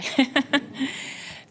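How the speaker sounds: shaky laughing breath; fighting back tears with a laugh; shaky sigh. Real, not acted. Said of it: "I'm gonna try not to cry".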